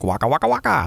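quick comic catchphrase, lightly imitated; Fozzie Bear. Likening a band to a Muppet, light comic imitation. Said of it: "they're like Fozzie Bear".

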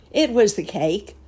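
sudden buzzing voice. A narrator's reading. Mosquito breaking in on Uncle Wiggily, sudden buzzing voice. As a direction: burst in as a pesky mosquito. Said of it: "cried a sudden and buzzing voice".

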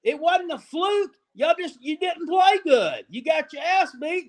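angry. Real, not acted. Angry rant at rival fans.

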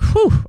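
short high exhale of relief; relieved whew. Retold or imitated. Telling how the friends made it inside, relieved whew. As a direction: let out a quick "whew".

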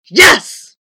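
high, loud one-word answer; booming giant. A narrator's reading. Giant wizard finally agrees to help, booming. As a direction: boom it as the giant.

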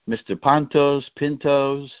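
mangle it as "Pontos", then "Pintos", long o endings; "Pontos" and "Pintos" ending in -tohz; butchered name. Retold or imitated. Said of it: "my name has been butchered so much".

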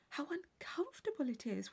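soft unvoiced whisper; whispered aside at a ball. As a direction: breathe it to her companion. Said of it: "whispered Catherine".

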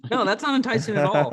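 loud, high-pitched protest; emphatic disagreement. Real, not acted. Friend rejects a betting pick, emphatic protest. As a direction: raise your voice to shoot it down.

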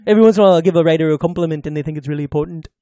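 lightly put-on mock Liverpool voice; Paul impression. Host playing Paul chatting about SNL, lightly voiced impression. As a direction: ramble on as a lightly sketched British Beatle. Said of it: "No, that's Paul".

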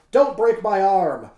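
slow, loud plea read out; hammed-up plea from the mat; mock cry of pain. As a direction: cry out as if your arm is bending. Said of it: "Dufour cried out aloud".

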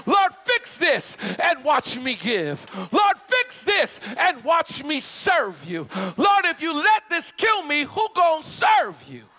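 rising, pleading cry to God; pleading prayer. Acted. Preacher voicing a believer begging God. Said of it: "Tell God".

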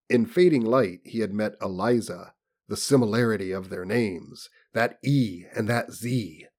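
measured, formal audiobook delivery; story narration. A narrator's reading. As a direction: read it out like a literary audiobook. Reads novel aloud.

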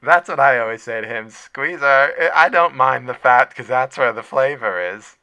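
fond cafeteria lady insisting on full fat; lunch lady voice. Pretend. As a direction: lunch lady tells Squeezer why she buys full-fat milk. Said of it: "Squeezer's Lunch Lady live".

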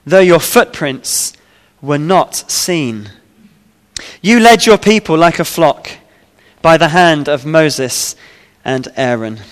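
measured psalm reading, pausing between phrases; scripture reading. Acted. Preacher reading the psalm to the congregation, measured scripture reading. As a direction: read it out solemnly, letting line endings fall away.

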